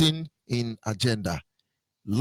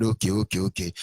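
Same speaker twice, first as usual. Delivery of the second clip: mock officials giving in; 10 semitones lower, 4 dB quieter than usual. Voicing officials backing down.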